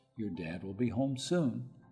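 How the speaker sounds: gentle, reassuring tone. Recalling how Mom comforted them about Dad's return, retelling soft, assured words. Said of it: "With soft assurance".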